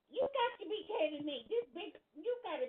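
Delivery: high, loud disbelief; you can't be serious; disbelieving. Real, not acted. Disbelief at Jordan's voice.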